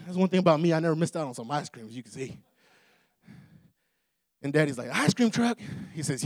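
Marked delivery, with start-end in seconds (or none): 4.9-5.6 higher, questioning echo; incredulous dad. Retold or imitated. Dad echoing his son's news, mild mock disbelief. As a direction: imitate a dad doubting what he just heard.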